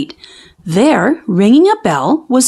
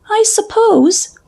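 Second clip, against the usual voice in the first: slow doubtful cub; 12 semitones higher than usual. A narrator's reading. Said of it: "said Sister".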